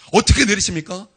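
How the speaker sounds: ordinary talk, nothing marked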